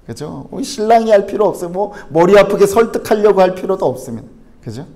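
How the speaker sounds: normal talking voice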